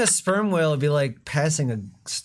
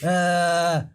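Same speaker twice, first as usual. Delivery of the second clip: Trump voice; 4 semitones higher than usual. Retold or imitated. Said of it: "He has Trump's voice".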